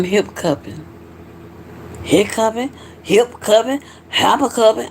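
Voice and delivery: "hip cupping", with a P closing the first syllable; playful mispronunciation. Pretend. Host puzzling over own hiccups, playful mispronunciation. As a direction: toy with the word, sliding from "hip cupping" to "hop cupping".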